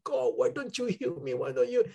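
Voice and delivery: high, insistent pleading, re-enacted; retold tearful plea. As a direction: plead with God and keep pressing. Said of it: "I was crying".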